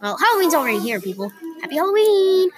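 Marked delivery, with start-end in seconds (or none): 1.6-2.5 cheerful greeting. Real, not acted. Greeting viewers on Halloween.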